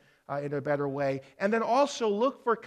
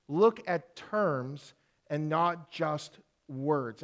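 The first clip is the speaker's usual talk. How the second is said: slow dictation; much slower than usual. Shown as a demonstration. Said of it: "You can jot these down".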